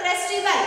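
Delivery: "festival" said firmly and distinctly; careful pronunciation. Shown as a demonstration. Teacher repeats the pronunciation for the class, careful pronunciation. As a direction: sound out "festival" clearly as a model. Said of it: "Pronunciation is".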